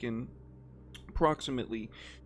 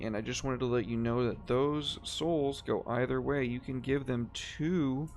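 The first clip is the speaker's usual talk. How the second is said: put-on e-girl cat voice; 2 semitones higher than usual. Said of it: "making you do an e-girl cat voice".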